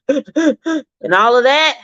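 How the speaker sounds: sharp gasp for air; gasping demo. Shown as a demonstration. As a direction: gasp as if crying. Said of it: "you can't breathe and you're like".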